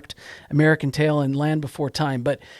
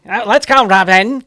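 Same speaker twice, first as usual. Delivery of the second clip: high-pitched, loud cartoon hero voice; 5 semitones higher, 7 dB louder than usual. Batman calling his sidekick Robin in a cartoon, high-pitched. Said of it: "that high-pitched voice".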